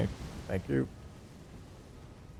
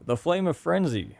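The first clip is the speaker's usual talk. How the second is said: dramatic; 10 semitones higher than usual. Real, not acted. Reads spell name, drawn out.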